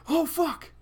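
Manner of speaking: high, loud shout of triumph; excited shout. Real, not acted. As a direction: yell it at a sudden win. Sudden success in the game.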